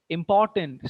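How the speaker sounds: imPORtant, middle syllable punched; stress on port. Shown as a demonstration. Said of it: "stress is on portent".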